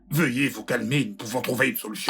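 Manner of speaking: pleading over her anger; urgent placating. Acted. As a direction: try to calm an angry parent. Placating an angry mother.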